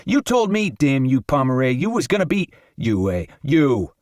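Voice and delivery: lightly voiced Raphael, rising into a fast tirade; paranoid rant. Raphael rants about plots.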